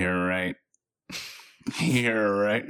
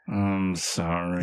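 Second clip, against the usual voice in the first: meek apology; 5 semitones lower, slower than usual. Acted. Dad apologizes, low slow.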